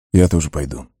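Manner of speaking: understated, heavy-hearted agreement. A narrator's reading. Aragorn agrees to follow into Moria, heavily. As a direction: agree as if it weighs on you. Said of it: "тяжело промолвил Арагорн".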